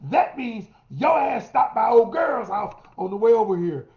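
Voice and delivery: rising, then a loud accusing shout at the end; jealous accusation. Acted. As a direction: play the suspicious partner, building to a yell. Acting out a jealous accusing partner.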